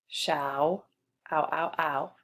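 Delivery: "Show" held, then its "ow" repeated alone; isolating the sound. Shown as a demonstration. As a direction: say "Show", then echo just the vowel: ow, ow, ow. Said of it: "So we hear the same sound".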